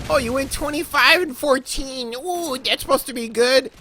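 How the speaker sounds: high, mocking whiny commenter. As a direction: sneer it like a snotty commenter. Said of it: "somebody made the comment of".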